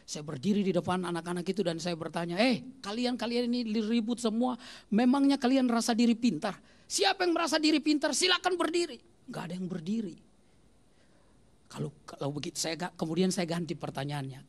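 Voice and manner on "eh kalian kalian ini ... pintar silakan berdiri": put-on exasperated Sunday school teacher challenging the children; annoyed teacher scolding. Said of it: "Lalu saya datang agak jengkel".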